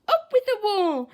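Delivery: high, loud war cry; rally the pack with a shout; fierce hunting chant =67. A narrator's reading. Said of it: "And they shouted".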